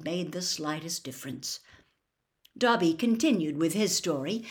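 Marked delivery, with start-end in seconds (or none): none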